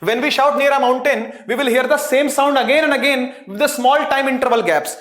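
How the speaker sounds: slowly reads English text word by word; slow textbook reading; slow reading aloud. Shown as a demonstration. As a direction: read it out slowly for students to follow. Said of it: "एक बार पढ़ लेते हैं".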